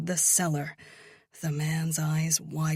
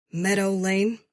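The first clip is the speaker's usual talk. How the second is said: savoring the words; 4 semitones higher, 6 dB louder than usual. A narrator's reading. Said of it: "letting the words roll off my tongue".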